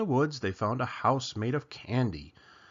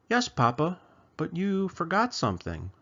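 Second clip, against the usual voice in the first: little chicken voice; 6 semitones higher than usual. Acted. Chicken asks for story.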